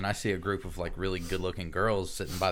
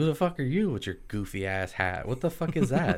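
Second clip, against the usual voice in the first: quicker, scoffing retort; retold mocking comeback; 4 semitones higher than usual. Storyteller mocking the boyfriend back, scoffing retort. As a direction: throw the challenge back with ridicule.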